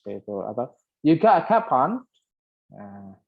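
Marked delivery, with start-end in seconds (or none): 1.1-2.0 imitated Scouse, raised and punched; Liverpool accent. Shown as a demonstration. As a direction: toss out a loud Scouse-style question. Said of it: "itu di Liverpool". (logat Liverpool tiruan, lantang)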